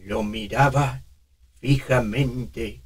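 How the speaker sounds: put-on slow, trembling old man; shaky old man voice. Shown as a demonstration. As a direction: quiver through each word. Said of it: "Lo estamos dotando de".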